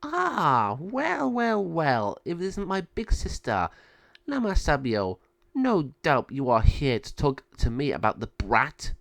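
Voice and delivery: Malvado greeting her sister with mock surprise; drawn-out, taunting villain greeting; sly villain sister. Malvado to her big sister Lama Sabio, taunting.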